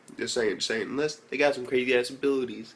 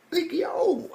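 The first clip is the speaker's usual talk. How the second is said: amazed whisper; hushed in disbelief; breathy stunned whisper. Real, not acted. Reacting to the giant battle.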